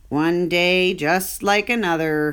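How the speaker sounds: slow, weary groaning line; mild groan. Acted. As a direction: sigh it out, a touch of a groan. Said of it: "he groaned".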